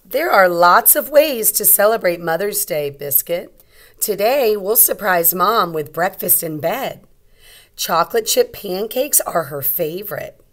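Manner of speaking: bright call to the puppy; little girl voice. Acted. Girl speaks in story.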